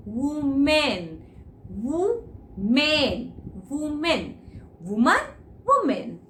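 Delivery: वुमेन repeated slowly with rounded lips; teacher drilling वुमेन with the class; slow repetition drill. Shown as a demonstration. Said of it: "गांठ मार लो".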